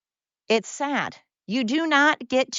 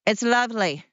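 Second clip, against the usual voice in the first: lilting delight. Pretend. Host picturing Sound of Music twirling, lilting delight.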